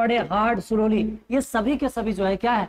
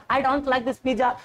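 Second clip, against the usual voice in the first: mock disgust; much slower than usual. Shown as a demonstration. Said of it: "एकदम थू थू कर दे".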